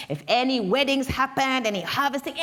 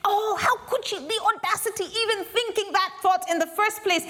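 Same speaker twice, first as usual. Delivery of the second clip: mock horror; 9 semitones higher than usual. A narrator's reading. Storyteller scolds in mock horror.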